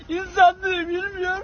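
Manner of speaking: choked up with real emotion; crying. Real, not acted. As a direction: voice breaking into tears. Preacher overcome, voice breaks.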